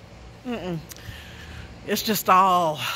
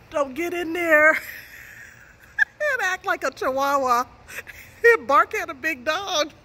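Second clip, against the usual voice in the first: laughing; 5 semitones higher, slower than usual. Retold or imitated. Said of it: "He would tell me".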